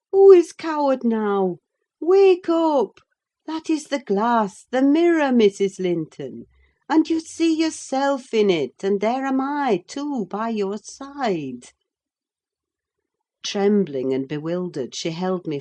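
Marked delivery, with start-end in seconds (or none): 0.1-11.7 higher, loud, urgent; Nelly rousing her. A narrator's reading. Nelly urging Catherine to wake, loud and urgent. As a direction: shake her awake with words.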